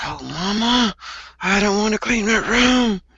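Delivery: reluctant, slow, drawn-out murmur to oneself. Showing a student how to say a complaint: muttering under breath. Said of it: "you will say under your breath".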